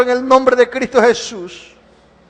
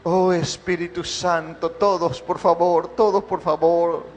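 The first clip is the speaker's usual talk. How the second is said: fervent prayer; 3 semitones lower than usual. Acted. Pastor praying over the church in an impassioned worship service. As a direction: pour it out to God, swelling then sinking low.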